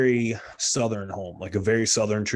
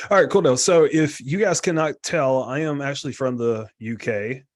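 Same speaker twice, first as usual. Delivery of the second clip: mock announcement; 4 semitones higher, 5 dB louder than usual. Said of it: "I'm kidding. That's a terrible joke".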